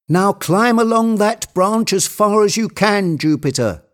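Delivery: high-pitched eager urging; excited cry. A narrator's reading. Legrand urging Jupiter along the branch, excitedly. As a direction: call out with mounting excitement. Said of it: "cried Legrand in an excited voice".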